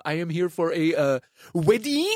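cartoon French accent. Wedding guest explaining himself in Paris, cartoon French accent. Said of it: "if I did a cartoon French accent".

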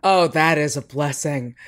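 low husky tired voice. Real, not acted. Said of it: "don't mind my Kathleen Turner voice".

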